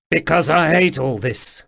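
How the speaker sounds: high, loud jittery stranger; pleading, flustered little man; nervous odd man voice. A narrator's reading.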